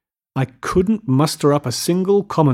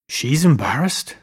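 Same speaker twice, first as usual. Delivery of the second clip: incredulous. A narrator's reading. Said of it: "he repeated incredulously".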